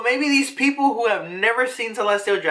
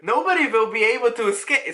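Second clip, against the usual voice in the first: put-on slightly raised vampire-like accent; Ivankov; 5 semitones higher than usual. Reader attempting Ivankov's lines again, clumsy vampire accent. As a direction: try a hammy vampire accent, badly. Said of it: "like, an accent when I do it".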